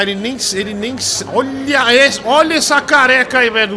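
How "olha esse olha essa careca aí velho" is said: high, loud outburst; mocking shout. Real, not acted. Host mocking the colleague's bald head, shouting. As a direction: cry out at the sight, very loudly.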